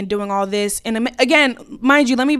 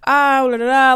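higher, half-hearted imitation yell; mild mock yell; 4 semitones higher, 5 dB louder than usual. Retelling own rant after the fight, mock yelling. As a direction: mimic your own drunken ranting in nonsense syllables. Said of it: "I'm yelling, like".

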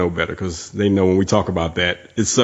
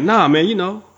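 put-on drunk guy; 10 semitones higher than usual. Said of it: "next to the drunk guy".

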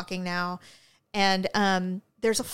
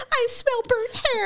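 tearful laughter; 13 semitones higher than usual. Real, not acted.

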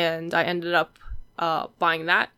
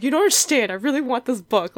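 put-on higher, louder childish plea for the book; retold teary pleading; 6 semitones higher, 4 dB louder than usual. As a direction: beg mom like a desperate thirteen-year-old, half-mock. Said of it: "I was crying".

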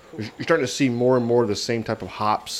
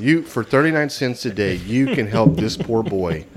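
charity ad voice; slower than usual. Pretend. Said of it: "S P C A commercials".

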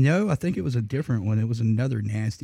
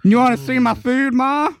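mouthy teasing; 13 semitones higher, 6 dB louder than usual. Retold or imitated. Teasing mother with food.

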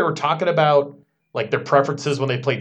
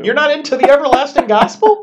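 teasing, higher and louder; mock shock; 10 semitones higher, 6 dB louder than usual. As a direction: pretend to be scandalized.

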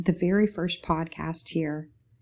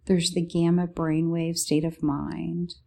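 sleep story narrator. Acted. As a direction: lull them gently toward sleep. Meditative description in podcast intro.

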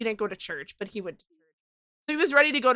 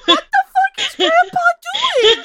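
very high, loud retold panic; hammed-up incredulous yell, high-pitched; freaked-out shout; 9 dB louder than usual. Scared child to mom about Grandpa, high hammed-up shout.

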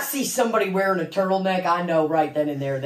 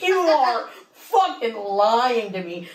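laughing; 3 semitones higher, slower than usual. Real, not acted. Disbelieving cousin's answer.

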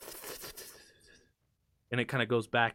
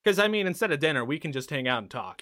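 higher, prim rebuke; uncomfortable host; 4 semitones higher, 3 dB louder than usual. Acted. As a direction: shut the topic down. NPC rebuffs crude talk.

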